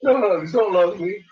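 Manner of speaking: high, pushy dog voice talking back; voicing the dog. Owner voices her dog refusing hugs, in a high put-on voice.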